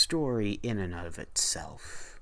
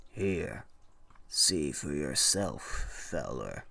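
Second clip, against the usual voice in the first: shopkeeper; 5 semitones lower than usual. Acted. Shopkeeper voiced in read story.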